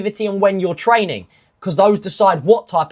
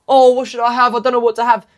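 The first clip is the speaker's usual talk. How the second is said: dithering dieter; 5 semitones higher, 3 dB louder, faster than usual. Retold or imitated. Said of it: "you know".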